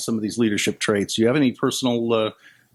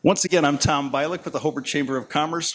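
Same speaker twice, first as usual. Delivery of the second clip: news anchor voice; 4 semitones higher than usual. Real, not acted. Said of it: "you have the best news anchor voice".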